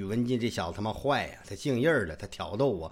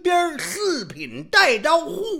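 very high, slow, proud announcement; grand proclamation; 11 dB louder, much slower than usual. Acted. Old man proudly announces his title, high and slow. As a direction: proclaim your rank with pomp.

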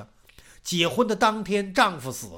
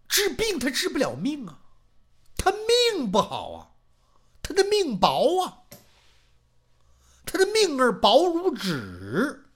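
wailing lament; 7 semitones higher than usual. Acted. Wife bewails dead son.

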